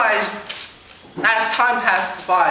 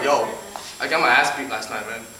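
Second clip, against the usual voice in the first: imitated Black kid; 9 semitones lower, 5 dB quieter than usual. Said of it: "Black kids is gonna be like".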